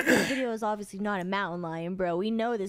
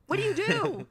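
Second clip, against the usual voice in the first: high, swooping cry of bewilderment; helpless exasperation; 8 semitones higher than usual. Real, not acted. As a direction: throw the question up high, at a loss. Helpless again, imagining a mountain lion.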